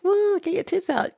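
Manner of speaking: high rowdy mock cheer. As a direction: yell it like a drunk fan. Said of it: "it's like the expression people say".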